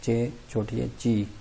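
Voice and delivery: ची sounded out slowly; slow ji demo. Shown as a demonstration. Teacher slowly showing students how to say ची. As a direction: drag out ची carefully. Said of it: "जे को pronounce करते हैं Chinese में ची".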